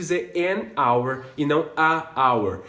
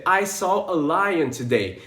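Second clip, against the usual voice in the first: slow demo; slower than usual. Shown as a demonstration. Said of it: "a criança vai simplesmente dizer".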